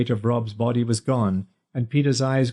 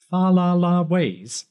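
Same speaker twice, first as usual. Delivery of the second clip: high, slow incredulous echo; mocking echo; 8 semitones higher, slower than usual. A narrator's reading. Peter mocking Rob's insult, high slow incredulous echo. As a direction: toss the phrase back, amused.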